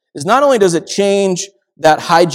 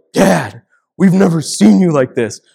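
put-on a touch of kids' alarm, raised and loud; boys' startled voices; 6 dB louder than usual. Sons startled by dad's outburst in the car, raised. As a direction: play the shocked sons, lightly. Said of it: "My boys were like".

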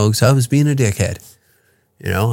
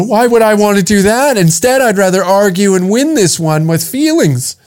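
higher mocking whine; mock defensive woman; 5 semitones higher than usual. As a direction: parody her refusing criticism. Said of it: "I'm angry when you talk".

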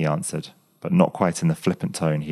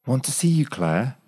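incredulous echo; 8 semitones higher than usual. A narrator's reading. Graham echoes her, incredulous.

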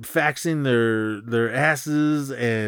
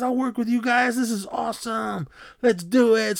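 mock hyped enthusiasm; 11 semitones higher than usual. Hyped guest to the two hosts, mock excited enthusiasm. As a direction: imitate a wildly keen partier without full volume.

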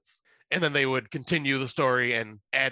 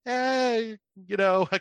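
much higher, shrugging excuse; 10 semitones higher, much slower than usual. Retold or imitated. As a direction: brush it off lightly. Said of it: "I'm going".

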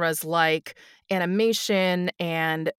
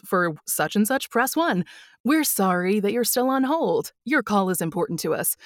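phone menu voice. Shown as a demonstration.

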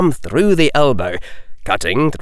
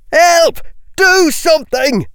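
high, loud cry for help; panicked shout; 4 dB louder than usual. Acted. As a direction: scream for help. Panicked cry during troll fight.

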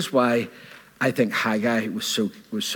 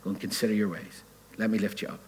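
gentle; 2 semitones lower, 6 dB quieter than usual. Acted. Preacher voicing the Lord to the congregation, gentle and soft. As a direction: say it gently, as kind counsel. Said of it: "he's being really gentle".

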